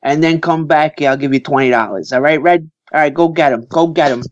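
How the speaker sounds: lightly voiced mobster giving orders; a hint of Brooklyn mobster; Brooklyn mafia guy. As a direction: imitate a wiseguy dispatching his errand boy. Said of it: "all those mafia guys".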